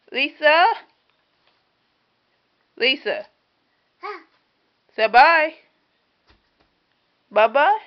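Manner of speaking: very high, loud sing-song calling. Real, not acted. Mother calling her baby to wave goodbye, high sing-song.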